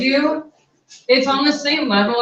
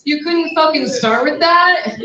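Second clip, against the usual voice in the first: higher, louder exasperated rant; mock outrage; 5 semitones higher, 4 dB louder than usual. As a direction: vent at the caller in mock disbelief. Exasperated at the caller.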